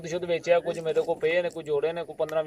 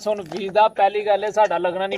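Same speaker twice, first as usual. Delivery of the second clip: higher and louder, exasperated; heated outburst; 4 semitones higher, 4 dB louder than usual. Acted. Shouting down his friend about the visa, exasperated. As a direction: demand to be heard.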